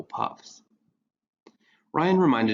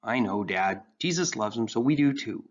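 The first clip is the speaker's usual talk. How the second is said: put-on earnest teen boy. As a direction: play Ryan bright and earnest. Ryan's earnest young voice.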